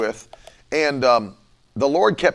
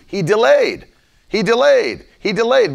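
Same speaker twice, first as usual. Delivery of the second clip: emphatic preaching; 6 semitones higher, 4 dB louder than usual. Acted. Preacher hammering a point.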